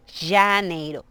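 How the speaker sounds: "janeiro" starting on a hushing J; Portuguese J. Shown as a demonstration. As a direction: say the j of "janeiro" like Spanish che softened to sh. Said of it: "La pronunciación con J es como con che".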